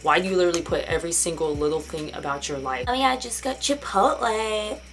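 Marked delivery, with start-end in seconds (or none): 2.9-4.8 mock oversharer. Mocking an oversharer's post.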